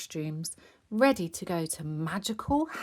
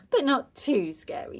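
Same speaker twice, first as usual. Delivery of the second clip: put-on little girl; 8 semitones higher, 4 dB louder than usual. A narrator's reading. Child answering father after giggle.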